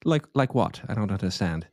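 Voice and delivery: mock-innocent British gent; pretentious British accent. Host pretending not to understand the complaint, in a pretentious British accent. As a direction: act puzzled in a put-on British accent. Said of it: "pretentious British accent".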